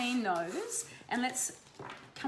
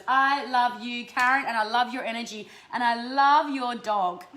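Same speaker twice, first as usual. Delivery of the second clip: loud gushing love; 6 dB louder than usual. Real, not acted. Gushing at a viewer.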